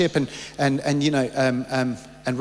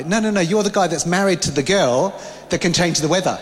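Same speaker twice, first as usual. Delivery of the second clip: laughing while quoting; 2 semitones higher than usual. Retold or imitated. People correcting him about his wife, laughing. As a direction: quote broken up by laughter.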